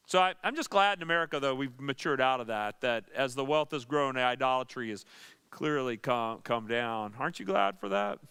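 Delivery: dry mock praise, tongue in cheek; sarcastic. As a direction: say it sarcastically, pretending to approve. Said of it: "that was sarcasm".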